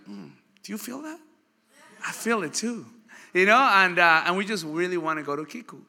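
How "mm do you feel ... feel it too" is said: soft, much quieter, a hushed "Mm" of longing; hushed craving. Retold or imitated. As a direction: murmur it like a secret craving. Couple craving their sushi.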